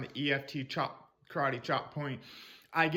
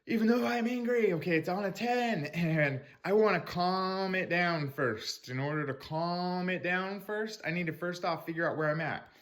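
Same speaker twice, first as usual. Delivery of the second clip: tapping script demo; 3 semitones higher than usual. Shown as a demonstration. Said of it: "tapping into, like".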